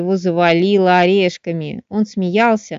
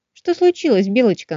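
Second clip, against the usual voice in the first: suddenly alarmed, high question; worried little mushroom asking; 5 semitones higher than usual. Acted. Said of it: "насторожился друг".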